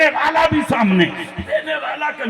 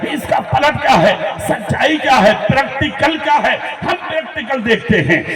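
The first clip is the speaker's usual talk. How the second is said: full-force preaching. Real, not acted. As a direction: preach at full volume to stir the crowd. Preacher rousing a crowd. (پرجوش، بلند آواز میں وعظ)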